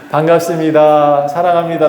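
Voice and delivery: stretched, sustained greeting to follow along. Shown as a demonstration. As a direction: draw out each greeting for the crowd. Leading congregation in greeting neighbours.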